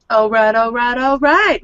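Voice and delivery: eager rising repeated agreement; perked up. Acted. Kay hears of a free drink, perking up. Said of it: "she'll perk up to that".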